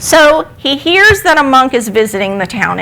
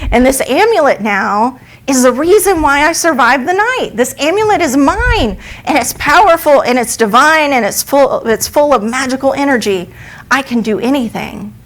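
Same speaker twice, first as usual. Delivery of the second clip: higher, rising with excitement over the amulet; elated boy; 4 semitones higher than usual. Acted. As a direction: boast with growing, exultant joy.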